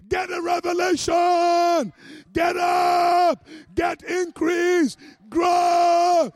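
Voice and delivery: loud, high drawn-out shouts; shouting angels. Acted. Angels urging on a struggling believer, shouting. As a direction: shout each urging, holding the last word long. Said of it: "they're shouting to you".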